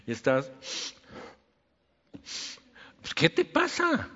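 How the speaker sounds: puzzled asker. Retold or imitated. Someone asks why you're choked up.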